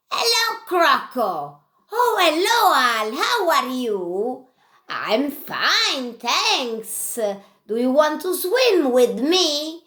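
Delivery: excited high puppet voices, quick at the end; two puppets chirp hello and rush off to swim; puppet friends chatting. Acted. Alligator puppets greet each other for the children, excited.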